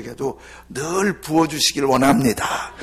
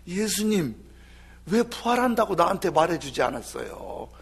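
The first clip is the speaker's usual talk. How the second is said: lament of Judas; 4 semitones higher than usual. Retold or imitated. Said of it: "그러면서 막 울고 다니는 거예요".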